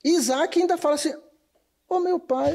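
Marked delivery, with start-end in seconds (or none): 1.9-2.5 put-on Bahia accent. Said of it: "Você falando com sotaque baiano".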